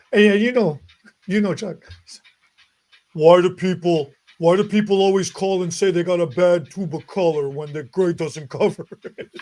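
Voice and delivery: terrible deep-voiced impersonation of Chuck. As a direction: do a bad deep-voiced imitation. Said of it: "I'm doing a terrible impersonation of him".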